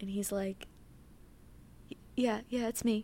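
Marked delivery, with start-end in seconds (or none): 1.9-3.0 put-on muffled voice, quieter. Retelling a phone call with a sister: imitating a muffled voice.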